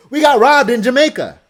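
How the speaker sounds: high, booming announcement; loud exclamation. Real, not acted. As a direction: shout it out as the big headline. Blurts headline of story.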